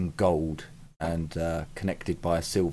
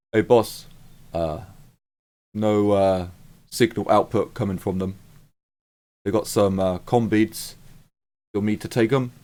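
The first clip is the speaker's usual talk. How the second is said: guard reporting; 3 dB louder than usual. Acted. GM voices guard reporting to boss.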